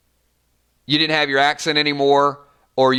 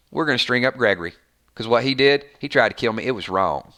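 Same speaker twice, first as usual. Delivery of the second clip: Maggie's drawl; 2 semitones lower than usual. Retold or imitated. Fan mimics Maggie announcing Gregory's hanging, mild Southern drawl. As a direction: imitate a long-winded, solemn Southern drawl. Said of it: "that drawl".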